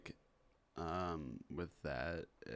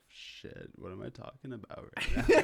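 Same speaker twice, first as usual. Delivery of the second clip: laughing; 3 semitones higher, 8 dB louder than usual. Retold or imitated. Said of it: "I'm like".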